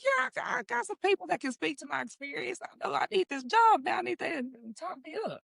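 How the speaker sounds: very high, squeaky mock begging; excited pleading. Applicant asking references to praise her, excited pleading.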